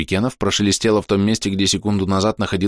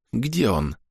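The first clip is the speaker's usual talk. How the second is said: cool, softer, level; calm voice; 3 semitones higher, 5 dB quieter than usual. A narrator's reading. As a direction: ask calmly, not hysterical. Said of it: "спокойный, совершенно не истеричный". (спокойный голос)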